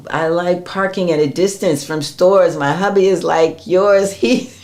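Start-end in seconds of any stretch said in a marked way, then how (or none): 4.2-4.5 high-pitched, laughing mock complaint; laughing exasperation. Real, not acted. Fitness coach joking with a viewer about husbands, laughing exasperation. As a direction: exclaim it through rising laughter.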